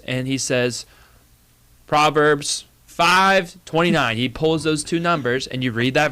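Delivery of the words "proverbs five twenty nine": bingo caller. Pretend. Imitating bingo host calling.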